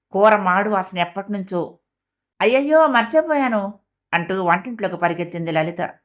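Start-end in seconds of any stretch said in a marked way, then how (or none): 2.4-3.7 higher-pitched cry of sudden dismay; alarmed. A narrator's reading. Lalita remembers the curry on the stove, alarmed. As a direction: blurt it out as you suddenly remember.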